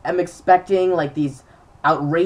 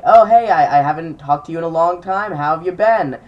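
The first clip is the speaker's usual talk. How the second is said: put-on a bright, louder hello to an old friend; cheery loud greeting; 6 dB louder than usual. Greeting an old teammate on the phone, loud and cheery. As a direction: open big and friendly, then settle down. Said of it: "I was like".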